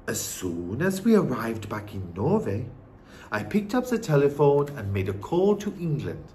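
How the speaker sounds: put-on measured old-woman voice; composed grandmother recounting events; wise Norwegian grandmother. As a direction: tell the news as the grandmother. Grandmother tells her news.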